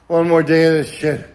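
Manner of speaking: loud frustrated groan of a line; exasperated shout. Real, not acted. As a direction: blurt it out, fed up. Exasperated outburst.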